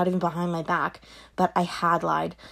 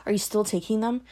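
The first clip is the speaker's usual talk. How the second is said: whisper; 3 semitones higher than usual. Acted. Mother questions daughter, whispered.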